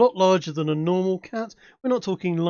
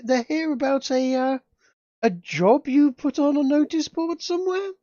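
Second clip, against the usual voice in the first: higher, hesitant servant voice, slowed; nervous maid stammering out the news; servant announcing guests; 8 semitones higher, 3 dB louder than usual. Acted. Maid announcing guests to her lady, higher and hesitant.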